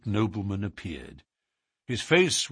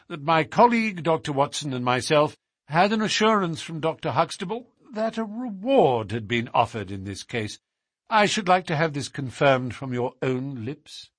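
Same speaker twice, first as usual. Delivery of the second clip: lightly voiced detective, pitched up; formal, assured Holmes; 6 semitones higher than usual. Holmes asks the Duke to confirm the reward, formal and assured. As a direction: state the case formally in a higher register.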